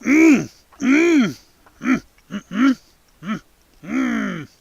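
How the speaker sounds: chewing hums through a mouthful; mouth full. Real, not acted. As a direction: hum while chewing a bite. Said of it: "without talking with my mouth full".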